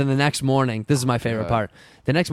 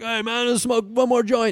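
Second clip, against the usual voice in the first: friend's voice; 9 semitones higher than usual. Retold or imitated. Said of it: "someone was like".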